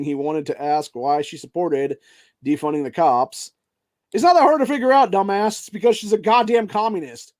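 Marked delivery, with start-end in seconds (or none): 4.1-7.3 much higher, louder, fast furious shout; furious rant. Real, not acted. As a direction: blast it like it's obvious, fast. Furious answer to crowd question.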